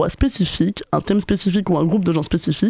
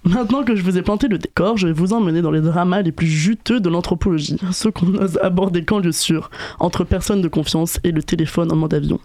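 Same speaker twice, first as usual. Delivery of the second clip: raspy sore-throat voice; hoarse voice. Real, not acted. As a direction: speak through a sore throat. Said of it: "c'est pas ma voix normale, j'ai une angine".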